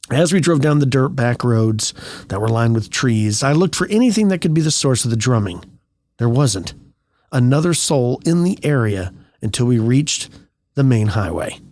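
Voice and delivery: measured storytelling read; story narration. A narrator's reading. Reading a tale of mysterious drumming to listeners, story narration. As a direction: read the tale aloud with deliberate pauses.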